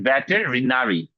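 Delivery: ভেটেরিনারি slowly, with a short quick r; slow model pronunciation. Shown as a demonstration. Teacher to class, showing the short r, slowly. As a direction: draw out ভেটেরিনারি, keep the r short. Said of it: "র-, রাটা উচ্চারণ হচ্ছে ... ছোট করে উচ্চারণ হয়".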